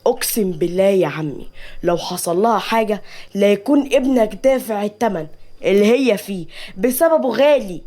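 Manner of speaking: understated angry oath; mildly acted anger; agitated anger. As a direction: swear it as a threat, temper held in. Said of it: "سيف بعصبية".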